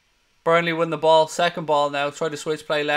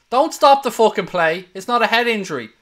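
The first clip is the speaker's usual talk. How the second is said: higher, louder furious protest; angry shout at the ref; 6 semitones higher, 7 dB louder than usual. Real, not acted. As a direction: yell at the referee to play on. Fan yells at ref over stoppage.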